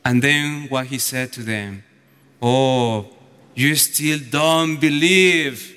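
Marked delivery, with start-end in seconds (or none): 2.4-5.7 low, drawn-out mock exasperation; irritated. Lord to disciples who still don't believe, irritated. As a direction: voice slow, let-down annoyance. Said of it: "That's what make him more irritated".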